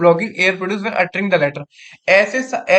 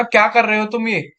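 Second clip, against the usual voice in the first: angry demo. Shown as a demonstration. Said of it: "मैं उससे बहुत गुस्से में बोलूंगा".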